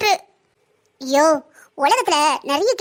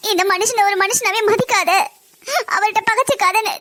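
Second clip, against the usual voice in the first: tearful lament; words breaking through tears; crying. Acted. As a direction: daughter weeps over her mother's warning. Captive daughter lamenting alone.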